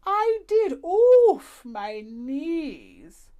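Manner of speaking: put-on an old lady laughing off creaky knees; Madame Badobadar's voice. A narrator's reading.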